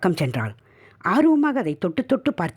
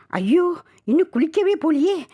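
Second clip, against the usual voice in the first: put-on childish whine; 12 semitones higher than usual. Husband whines, voiced high.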